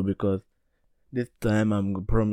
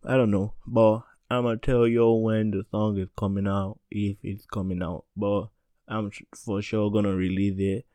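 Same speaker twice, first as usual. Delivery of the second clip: breathless, catching breath between words; talking while winded. Real, not acted. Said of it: "Wait, let me catch my breath".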